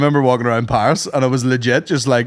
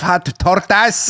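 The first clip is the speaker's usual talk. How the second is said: drawn-out longing; 6 semitones higher, 3 dB louder, much slower than usual. Pretend. Echoed food craving.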